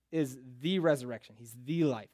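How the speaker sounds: "the" picked out and stressed as the key word. Shown as a demonstration. Preacher showing the key word, stress on "the". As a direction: lean on each "the". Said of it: "That word "the" is very important".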